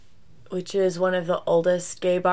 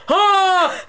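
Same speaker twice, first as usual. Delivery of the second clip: yell; 10 semitones higher than usual. Retold or imitated. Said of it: "you go".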